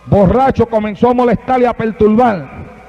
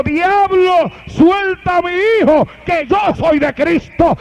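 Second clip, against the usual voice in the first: high raised rebuke, slowing at the end; old man shouting; 6 semitones higher, slower than usual. Acted. Old father in bed to the devil, raised commanding shout. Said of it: "el anciano desde la cama gritó".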